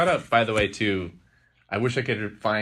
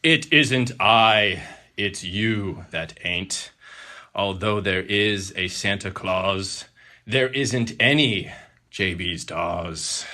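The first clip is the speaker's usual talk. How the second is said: slow, stern and louder; angry saint; 6 dB louder, much slower than usual. Acted. A hint of an angry Santa scolding the boy, slow and stern. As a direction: lay down the law slowly. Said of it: "replied the angry saint".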